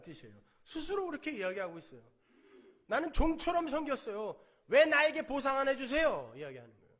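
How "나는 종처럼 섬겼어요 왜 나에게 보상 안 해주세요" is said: loud, high indignant demand; resentful complaint. Retold or imitated. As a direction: voice the elder son's grievance. Preacher voices resentful elder son. (종처럼 섬겼는데 보상을 달라는 큰아들의 억울한 항의)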